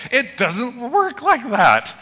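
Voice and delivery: slow, loud, emphatic; worked up and emphatic; fired up. Real, not acted. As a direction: hammer each word out. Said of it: "I'm getting all fired up".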